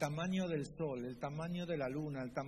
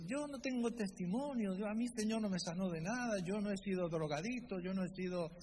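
excusing believer; 4 semitones higher than usual. Retold or imitated. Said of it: "Y dice".

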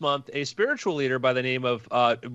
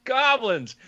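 slow, higher amused brush-off; mock dismissive; 8 semitones higher, slower than usual. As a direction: wave it off as cute.

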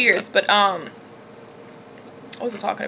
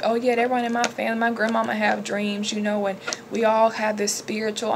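imitating casual chatter, softer; 5 dB quieter than usual. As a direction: toss it off casually, like everyday small talk. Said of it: "talk about this so casual".

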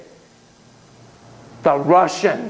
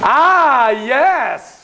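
a much higher, louder delighted cry; gleeful gotcha; 9 semitones higher, 4 dB louder than usual. Acted. Lecturer to audience caught checking phones, gleeful. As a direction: pounce on them with delight.

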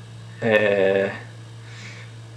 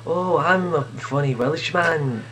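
put-on awful Welsh accent; 5 semitones higher, slower than usual. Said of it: "That's an awful Welsh accent".

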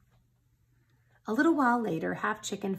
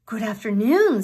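loud greeting; 2 semitones higher, 9 dB louder than usual. Acted. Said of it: "said Half Chicken to the guards".

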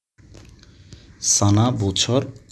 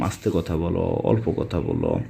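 softly spoken; 6 semitones lower, 6 dB quieter than usual. Shown as a demonstration. Teacher showing a class how to speak softly and quietly. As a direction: drop the voice low to show quiet speech. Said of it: "সোয়াইয়া কালাম".

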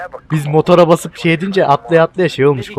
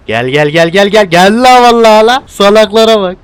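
louder, higher, impatient call; excited urging; 4 semitones higher, 4 dB louder than usual. Real, not acted. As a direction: egg the buddy on with rising frustration. Gamer urging his partner on.

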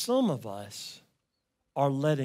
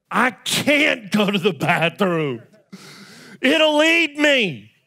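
put-on high, loud frightened kid voice; scared child; 9 semitones higher, 13 dB louder than usual. Boy telling his dad the monster will eat him, high frightened wail. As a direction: wail it like a terrified little boy.

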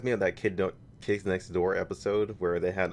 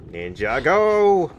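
high shouted battle cry; ninja yell; 8 semitones higher, 9 dB louder, much slower than usual. Real, not acted. Gamer yelling while fleeing the enemy, loud high cry.

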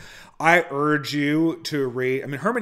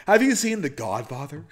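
lightly voiced psycho monologue, pitched up; Patrick Bateman; 4 semitones higher than usual. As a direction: begin a playful American Psycho routine. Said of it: "part of the Patrick Bateman routine".

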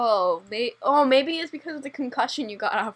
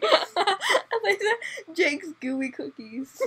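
slow, higher, laughing; 5 semitones higher, 4 dB quieter, much slower than usual. Real, not acted. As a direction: insist while laughing. Insisting through laughter.

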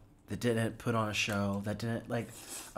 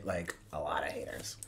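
whispering; 10 semitones lower, 8 dB quieter than usual. Real, not acted. Joking aside about his haters.

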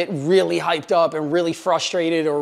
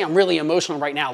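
fast, rushed run through the words; wrong way, rushed; much faster than usual. Shown as a demonstration. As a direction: blurt it out quickly as the bad example. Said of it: "You don't say".

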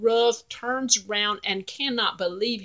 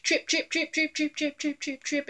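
high, softer trip trip trip, fading; light hoofsteps; 7 semitones higher, 5 dB quieter than usual. A narrator's reading. Narrator sounding the little goat crossing the bridge, high and fading. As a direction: tap the words out like little hooves.

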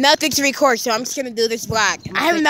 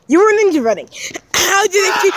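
screaming; 5 semitones higher than usual. Real, not acted. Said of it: "Why are you screaming?".

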